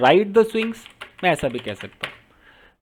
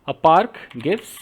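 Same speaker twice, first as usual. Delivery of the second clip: slow dictation; 3 semitones lower, much slower than usual. Shown as a demonstration. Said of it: "teacher dictates slowly".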